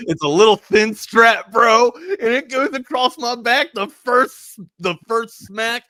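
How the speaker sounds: high, slow, strained cry of remembered pain; loud, drawn-out wail reliving the hit; pained outcry. Retold or imitated. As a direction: stretch it out like the lash still stings. Retelling the belt's first lash.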